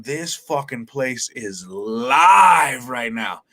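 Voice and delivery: slow, drawn-out amazed call; awed excitement. Retold or imitated. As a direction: stretch each word out in wonder. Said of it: "I'm looking around the room going".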